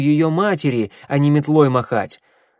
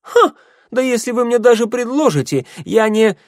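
very high, loud indignant retort; shrieky offended comeback, cut short; scornful outburst; 12 semitones higher, 6 dB louder than usual. A narrator's reading. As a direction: scoff sharply, then protest at the top of the range.

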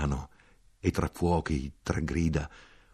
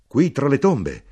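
higher, louder shocked exclamation; exclaiming; 7 semitones higher, 8 dB louder, slower than usual. A narrator's reading. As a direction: blurt it out in alarm at the graves.

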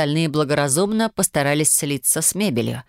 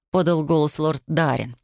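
usual speaking voice

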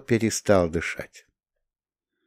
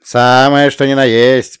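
confirming; 4 semitones higher, 7 dB louder than usual. A narrator's reading. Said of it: "подтвердил Бирский".

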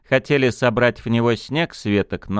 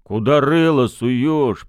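high, slow rebuking shout; snapping; 6 semitones higher, 4 dB louder, slower than usual. Acted. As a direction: scold a careless friend. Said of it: "прикрикнул Мурыгин".

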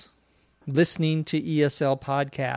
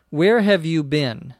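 angry father. Acted. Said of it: "from the way he says that, that he's angry".

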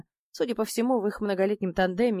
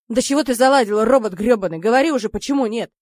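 louder, fed-up exasperated gnome; 2 semitones higher, 8 dB louder than usual. A narrator's reading. Gnome demanding why Sanya refuses, exasperated. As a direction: push him hard for an answer.

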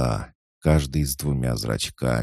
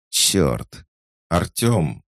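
alarmed shout; 5 semitones higher, 4 dB louder, much slower than usual. Acted. Alice shouting.

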